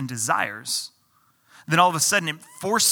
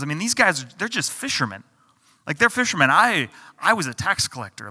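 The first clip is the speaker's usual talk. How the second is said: mock-indignant disciple griping; grumbling disciple. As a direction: play the indignant disciple complaining. Disciples voiced grumbling about thrones.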